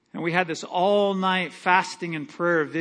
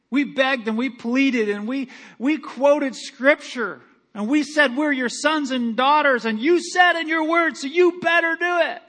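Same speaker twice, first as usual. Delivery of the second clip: higher and louder, building to a shout; retold demanding shout; 6 semitones higher, 4 dB louder than usual. Pastor retelling how they shouted demands at God, building shout. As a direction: make the demand ring louder each phrase. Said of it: "And we were all just like".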